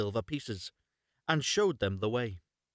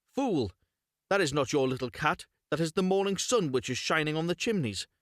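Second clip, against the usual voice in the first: higher, sharp scolding stepmother; wife scolding; 4 semitones higher than usual. Acted. Wife scolding Hansel for looking back, sharp. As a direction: dismiss the boy as a fool.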